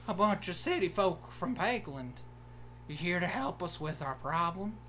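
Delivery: Southern guard greeting the city folk; hammed-up country Southern accent; cartoonish Southern townsman's voice; stereotypical Southern accent. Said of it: "really offensive Southern accent".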